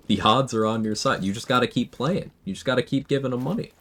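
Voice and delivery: high, smug billionaire pitch voice; smug wealthy tycoon. Retold or imitated. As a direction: sell the dream like a rich tycoon. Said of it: "My billionaire impression".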